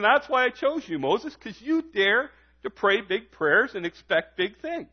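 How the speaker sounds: pleased, lifted delivery; smiling. Acted. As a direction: let a smile lift the words. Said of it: "I think he was smiling".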